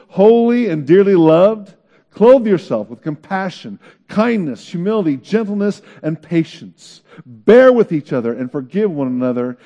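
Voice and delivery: measured, emphatic reading of the verses; scripture reading. Acted. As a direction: read it like it's being preached aloud. Reads scripture aloud.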